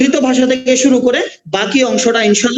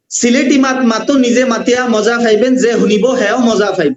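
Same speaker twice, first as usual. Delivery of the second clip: repeating the Sylheti phrase in dialect. Shown as a demonstration. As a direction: say it again like a Sylheti local. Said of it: "এই হলো সিলেটের ভাষার ধরন".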